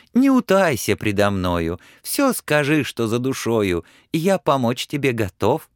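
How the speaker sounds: a loyal little horse fussing over his friend; caring little horse. Acted. Humpback horse asks sad Ivan what's wrong, caring.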